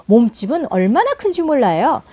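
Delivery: usual speaking voice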